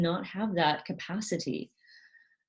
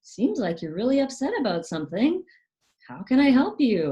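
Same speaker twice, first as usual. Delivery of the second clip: caring parent; 9 semitones higher, 5 dB louder, faster than usual. Retold or imitated. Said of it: "going to the child and saying".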